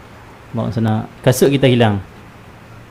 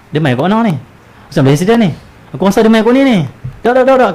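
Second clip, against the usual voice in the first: excited nosy bystander, much higher and louder; gossiping onlooker; 8 semitones higher, 4 dB louder, faster than usual. Retold or imitated. Preacher voices a nosy bystander gossiping over a crash scene. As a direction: chatter eagerly about the crash. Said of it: "Dia lepas bahasa cerita".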